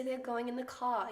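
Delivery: slow British accent, R's dropped. Shown as a demonstration. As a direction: demonstrate a non-rhotic British accent. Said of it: "they speak without the R's".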